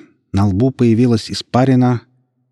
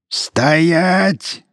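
higher, ringing command; booming command; 10 semitones higher, 3 dB louder than usual. A narrator's reading. Godogost halts the charging twin, booming. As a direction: stop him dead with one word. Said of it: "Зычный голос Годогоста".

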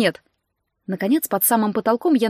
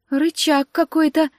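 barely breathing; 6 semitones higher, slower than usual. A narrator's reading. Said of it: "едва дыша произнесла Валина".

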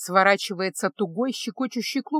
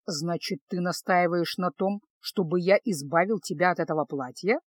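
sly; 3 semitones lower than usual. Acted. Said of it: "лукаво уточнил маг".

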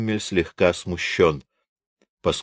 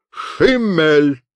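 barked name; 8 semitones higher, 3 dB louder than usual. A narrator's reading. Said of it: "рявкает позади него мощный командирский бас".

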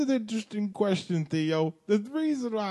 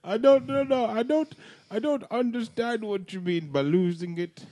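put-on South African accent; 4 semitones higher than usual. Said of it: "Your voice".

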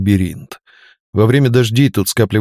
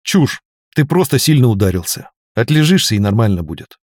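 resolute. Acted. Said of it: "решительно сказал".

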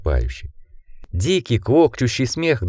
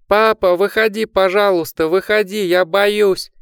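put-on terrified child; 10 semitones higher than usual. A narrator's reading. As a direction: cry out for dad in panic. Terrified child calling his dad.

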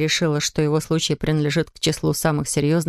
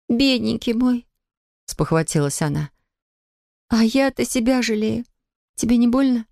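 higher, pitying woman's voice; tender young woman; 6 semitones higher than usual. Acted. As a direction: coo over him like a hurt child. Sonya pities him. (высокий жалостливый женский голос)

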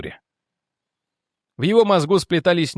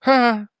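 single high, loud-edged "ha"; high mad laugh; 9 semitones higher, 4 dB louder than usual. A narrator's reading. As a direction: let out one high, crazed "ha". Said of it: "Лейтенант Нильсон смеялся". (высокий безумный смешок)

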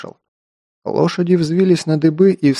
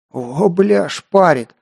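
hoarse; 4 semitones higher, much slower than usual. Acted. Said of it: "прохрипел рядом Кир".

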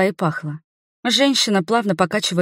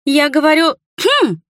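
higher and louder, insisting; raised voice; 9 semitones higher, 5 dB louder than usual. A narrator's reading. Nerina insisting the couple stop kissing, loud and high. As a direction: repeat the cough as a loud, high demand. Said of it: "повысила голос Нерина".

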